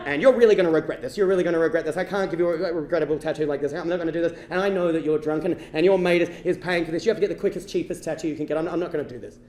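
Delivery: a hint of a stern tradesman; disapproving tattooist. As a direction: refuse a drunk customer firmly and low. Tattooist refuses the drunk customer.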